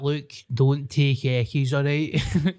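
slow, preachy anti-drugs warning; mock stern lecture. Mocking the footballer's school talk, slow and preachy. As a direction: lecture the kids slowly, half-joking. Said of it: "I hope he wasn't like that".

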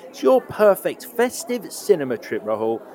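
theatrical festive scene-setting; podcast host sets a festive scene, theatrical host read; show host intro. Acted. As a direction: lead the guest into an imagined cinema. Hosts a festive movie segment.

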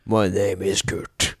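low mock manly introduction; put-on deep voice. Guest showing off his new voice, put-on deep voice. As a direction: introduce yourself in a pretend deep voice. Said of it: "I will begin to speak like this".

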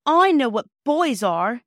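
loud, drawn-out indignant retort. A narrator's reading. Phyllis answers her brother with flaming cheeks, indignant. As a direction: snap back hotly, stretching the words. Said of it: "said Phyllis with flaming cheeks".

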